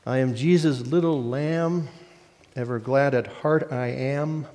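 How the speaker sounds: measured rhyme with a pause after each line; unhurried children's hymn verse, spoken; verse recitation. Acted. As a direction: recite it line by line, settling toward the end.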